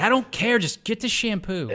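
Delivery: high, loud exasperated squawk; impression of Martin Lawrence. Martin Lawrence snapping at his partner over shampoo, high exasperated yell. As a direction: snap back, fed up and shrill-high. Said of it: "Martin Lawrence like".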